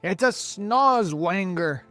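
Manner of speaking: loud, high, drawn-out cry; alarmed cry. A narrator's reading. Police chief naming the monster above him, crying out. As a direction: cry out the monster's name, stretching it. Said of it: "cried the chief of police".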